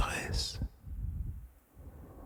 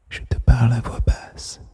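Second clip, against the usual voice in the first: hushed whisper. Real, not acted. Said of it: "Je chuchote. Je murmure". (voix basse, chuchotée au creux de l'oreille)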